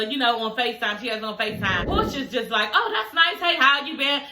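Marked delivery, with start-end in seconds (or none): 2.7-4.2 high, sugary fake-polite greeting, imitating; mock-nice voice pitched up high. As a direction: put on a sweet front for the camera. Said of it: "kick in with bitch being nice".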